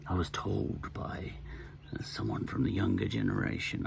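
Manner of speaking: half-hearted presidential impression, softly spoken; Ronald Reagan impression, badly done. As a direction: try a famous president's voice and miss. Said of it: "I can't do Ronald Reagan's accent".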